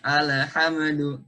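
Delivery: slow "alhamdu" with the m bounced, like "lahamadu"; wrong bounced mim. Shown as a demonstration. Teacher demonstrating the wrong qalqalah on mim. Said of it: "Dan juga mimnya".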